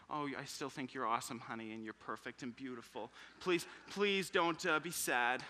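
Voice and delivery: a touch of tender husband comforting; tender reassurance. Pretend. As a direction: soothe her softly, slowing on the pleas. Husband's ideal comforting words.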